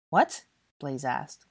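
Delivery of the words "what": high, loud startled question; taken aback and affronted; confused, indignant. A narrator's reading. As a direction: ask it indignantly. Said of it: "looking both confused and indignant".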